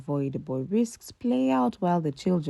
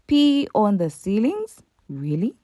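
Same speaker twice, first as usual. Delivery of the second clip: disbelief; 5 semitones higher, 5 dB louder than usual. Real, not acted. Incredulous at the claim.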